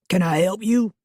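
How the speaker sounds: put-on suspicious man, Southern accent. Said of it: "He had a heavy Southern accent".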